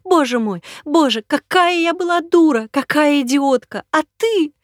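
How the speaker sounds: very high, loud, frantic cries; screaming in panic; woman who uncovered the lie, hysterical. Acted. Hysterical woman confronts impostor.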